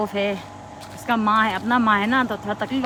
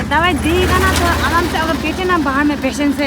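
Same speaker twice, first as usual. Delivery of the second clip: irritated; 5 semitones higher, 6 dB louder than usual. Retold or imitated. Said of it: "ऐसा बोला ना".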